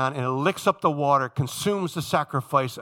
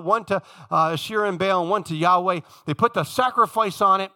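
higher-pitched, emphatic preacher delivery; impassioned preaching; 6 semitones higher, 5 dB louder than usual. Acted. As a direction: preach it with rising fervour, landing hard on key words. Preaches at full force.

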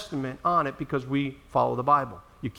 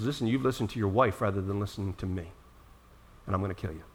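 quiet menace; 9 semitones lower, 8 dB quieter, faster than usual. Acted. God voiced quietly to Moses.

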